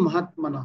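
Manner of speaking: মহাত্মান ending short with barely any h; half h ending. Shown as a demonstration. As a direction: stop মহাত্মান before a full "ha". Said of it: "মানে উজ্জ হ হয়েছে". (মহাত্মান শেষে অর্ধেক হ)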